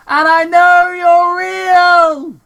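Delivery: high, loud and slow, a crazed yell into the dark; drawn-out mock shout into the trees. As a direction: yell it out like a paranoid hermit. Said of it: "Crazy Carl shouted".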